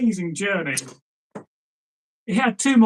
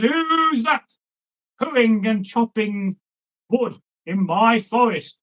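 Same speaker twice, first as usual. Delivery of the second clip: troll voice; 3 semitones higher, slower than usual. Acted. Troll challenging the intruder.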